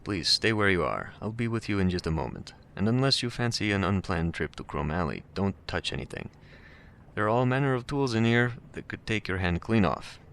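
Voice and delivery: put-on pleasant, cultured voice with slight Russian accent; amateur Russian accent, politely cautioning a visitor; hint of Russian accent. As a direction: lightly voice a courteous Russian. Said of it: "There's a hint of a Russian accent".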